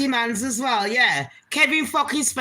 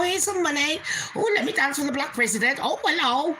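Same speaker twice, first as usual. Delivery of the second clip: mock cute Queen. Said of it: "Looking all cute and".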